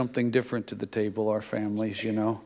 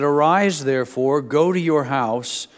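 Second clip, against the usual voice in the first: a loud, solemn pronouncement; prophet's command; 3 semitones higher, 6 dB louder than usual. Retold or imitated. Preacher voicing the prophet to Jeroboam's wife, loud and solemn. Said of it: "then he said this".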